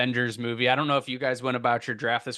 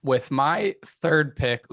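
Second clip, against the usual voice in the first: voice crack; 2 semitones higher, 3 dB louder, much slower than usual. Real, not acted. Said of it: "ooh, voice crack there".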